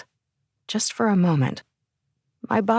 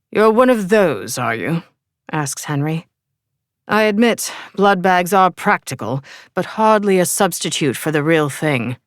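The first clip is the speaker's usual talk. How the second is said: put-on English accent. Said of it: "with an English accent".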